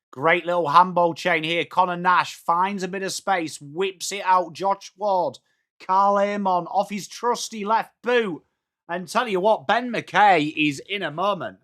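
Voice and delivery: lively footy commentary; live play-by-play. Real, not acted. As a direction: call the passage of play as it unfolds.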